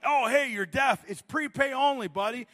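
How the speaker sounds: high, loud, over-clear explaining; homeless man explaining. Retold or imitated. Homeless man explains prepay to a supposedly deaf man, loud and high. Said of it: "he's like".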